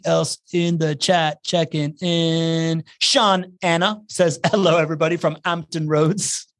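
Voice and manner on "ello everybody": "Hello" as "'ello"; dropped H. Shown as a demonstration. Host reading another viewer's greeting, "Hello" with no H. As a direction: leave the H off "Hello". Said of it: "not gonna pronounce a single H".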